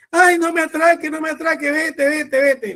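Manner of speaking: high whimpering plea to a burglar; timid plea to robber. Pretend. Preacher pretends to beg a burglar, high whimpering mock plea. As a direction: beg the thief weakly. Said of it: "como si tú le dijeras a un ratero".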